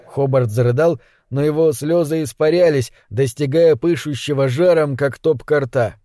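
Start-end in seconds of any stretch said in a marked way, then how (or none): none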